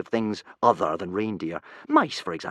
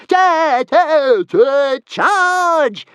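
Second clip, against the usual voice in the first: much higher, louder battle cry; joyful yell; 11 dB louder, much slower than usual. Acted. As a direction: charge in with glee. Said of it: "yelled Toothless joyfully".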